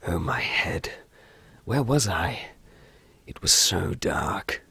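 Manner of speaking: slow, hushed narrator; game story narration. Acted. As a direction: read it low and slowly, like a groggy protagonist.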